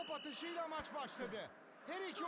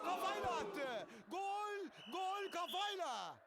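screaming football commentator; 3 semitones higher than usual. Acted. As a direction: yell the header goal. Game commentator calls a header goal.

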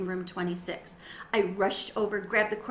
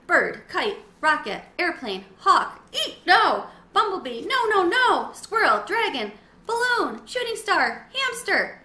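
higher and louder, tumbling out word after word; excited rapid brainstorm; 8 semitones higher, 6 dB louder than usual. A narrator's reading. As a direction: blurt ideas faster and faster. Frantic brainstorm list, rising.

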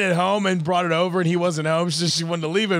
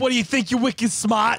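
weak, higher-pitched go at Boston; failed Boston accent; 5 semitones higher than usual. Acted. Copying co-host, clumsy Boston accent. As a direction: try a Boston accent and miss. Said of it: "I can't do accents".

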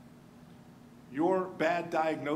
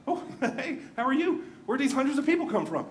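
startled, laughing, higher and quicker; surprised; 6 semitones higher than usual. Retold or imitated. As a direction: caught off guard in the sudden light, a laugh slipping out. Startled by sudden daylight crowd.

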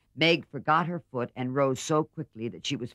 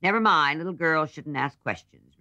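higher, louder sharp retort; sharply; 6 semitones higher, 6 dB louder than usual. A narrator's reading. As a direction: snap at the little sister. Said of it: "returned Joe sharply".

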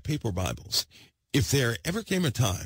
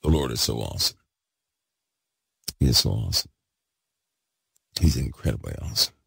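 loud, lower, worked-up praise; 9 semitones lower, faster than usual. Real, not acted. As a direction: let the excitement burst out loud. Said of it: "I'm all loud, worked up, excited".

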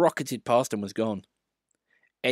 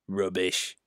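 smiling; 3 semitones lower than usual. Acted. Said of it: "smiled his driver".

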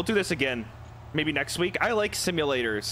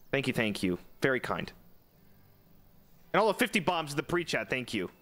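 vintage cartoon voice. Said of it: "it's different when I say it with my cartoon voice".

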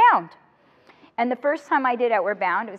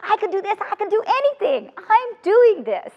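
rising triumph; 7 semitones higher than usual. Retold or imitated. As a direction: build from awe to high triumph. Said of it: "revelation of independence".

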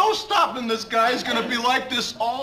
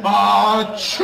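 fake sneeze; 2 semitones lower than usual. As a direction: fake a big sneeze for the gag. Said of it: "I think I'm gonna sneeze".

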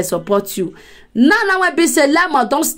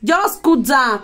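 soothing; slower than usual. Real, not acted. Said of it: "My dear Mary".

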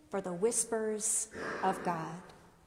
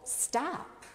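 raised pitch, held-back volume; understated imitation of a temple shout; restrained retold shout; 3 semitones higher, slower than usual. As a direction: call it out firmly without yelling. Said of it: "Jesus shouts in the temple".

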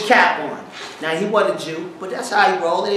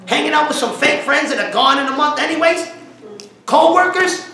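high, raised preaching voice; building, high-pitched exhortation; impassioned challenge; 7 semitones higher than usual. Real, not acted. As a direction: press the congregation with pointed questions.

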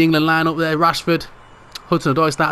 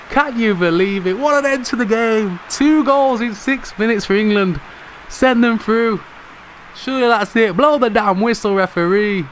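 raised, urgent commentator's pitch; excited match commentary; 5 semitones higher than usual. Real, not acted. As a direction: urge the referee to end it, still buzzing. Willing the final whistle after goal.

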